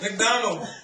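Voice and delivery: put-on high, loud excited kid shout. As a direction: cheer it like a thrilled child. Kids shouting their dinner choice.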